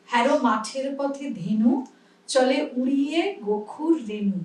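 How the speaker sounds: ধীরে কবিতা আবৃত্তি; poem recitation. Shown as a demonstration. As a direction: say the line clearly for students. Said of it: "আমরা কি বলি".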